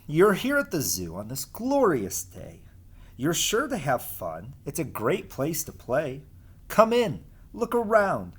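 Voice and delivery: lively sing-song storybook reading; reading to children. Acted. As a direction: read the rhymes as if to a class of kids. Reads rhyming picture book aloud.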